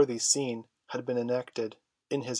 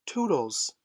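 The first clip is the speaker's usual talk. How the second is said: cried out; 3 semitones higher than usual. A narrator's reading. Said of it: "she cried".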